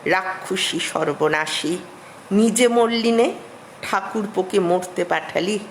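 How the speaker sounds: mild imitation of an angry scolding; acted cursing. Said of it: "গাল দিলেন".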